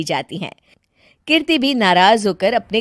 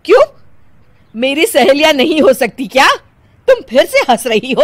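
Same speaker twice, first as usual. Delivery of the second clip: louder, indignant questioning; offended; 2 semitones higher, 5 dB louder, faster than usual. Acted. Mother-in-law offended by the giggling bride. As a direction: demand an answer, offended.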